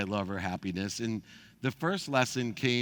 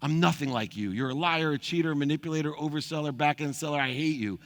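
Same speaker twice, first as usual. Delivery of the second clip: retold outburst; 5 semitones higher than usual. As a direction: spit the list of insults back, pitched up. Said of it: "I exploded".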